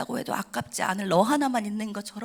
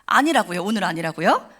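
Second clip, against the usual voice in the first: a touch of exasperated insistence, somewhat louder; mildly angry protest; 2 semitones lower, 6 dB louder than usual. Retold or imitated. Young woman protesting to God, mildly annoyed insistence. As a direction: push back at God, half-annoyed. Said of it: "나중에 막 화가 났어요".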